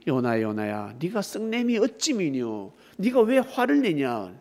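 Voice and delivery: lightly acted voice of God, slow; slow, solemn questioning; God questioning Jonah. God asking Jonah why he is angry, lightly reproving. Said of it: "그때 하나님이".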